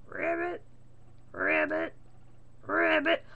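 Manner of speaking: frog croak imitation. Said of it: "twenty minutes later".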